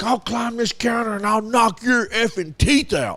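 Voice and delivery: mock threat. Retold threat from angry customer.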